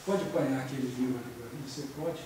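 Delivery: low, polite asking tone; softened order. Shown as a demonstration. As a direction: make the command sound like a mild favor. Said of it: "mas atenuada".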